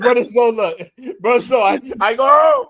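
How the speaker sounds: put-on high, loose Dominican-accented broken English; drunk Dominican. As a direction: imitate a tipsy Dominican man. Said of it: "He sound like a drunk Dominican".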